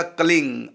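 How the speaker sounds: कलिंग ending on ng as in गंगा; ng pronunciation. Shown as a demonstration. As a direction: finish कलिंग with open lips on ng. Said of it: "वो अंगा लगेगा".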